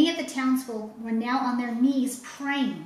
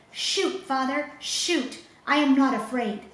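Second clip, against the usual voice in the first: high shout over the crowd; 4 semitones higher, 4 dB louder than usual. Acted. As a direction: call out to father to shoot. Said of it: "he shouted above the din".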